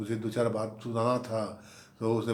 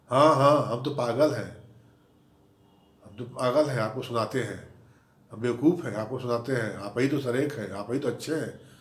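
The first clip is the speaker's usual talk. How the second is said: mock angry sarcasm. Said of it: "काहे इतना गुस्सा हो रही हो?".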